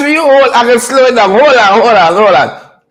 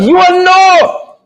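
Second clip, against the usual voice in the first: mock preacher call; 5 semitones higher, much slower than usual. Pastor-style comic warning to viewers, drawn out and high. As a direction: belt it slow like a preacher warning the congregation.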